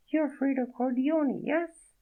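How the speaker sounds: a startled French woman, voiced high; French accent. Naked woman startled by Fredo, in a high French accent. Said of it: "The accent was real".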